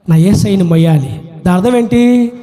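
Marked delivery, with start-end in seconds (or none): 0.1-1.3 low, earnest repeat of devotion; solemn Mary. Acted. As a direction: say it deep and heartfelt, in character. Repeats Mary's words low. (తగ్గు స్వరంలో ఆర్తిగా)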